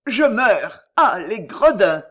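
loud dying gasp, slow at end; overacted death scene. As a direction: die loudly cursing the villains. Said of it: "fut son dernier mot".

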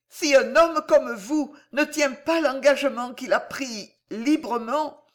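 high, earnest voice of a wounded lover; high, fervent heroine, ending on an indignant exclamation; impassioned woman in love. A narrator's reading. Voices Corisandre in the story.

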